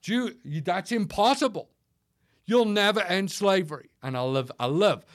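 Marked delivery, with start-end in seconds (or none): 0.0-3.9 much higher, mocking doubter's voice; Eeyore attitude. Doubters telling the speaker it's hopeless, mock Eeyore attitude. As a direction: imitate a defeatist naysayer, pitched up. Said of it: "they'll come to me with their Eeyore attitudes".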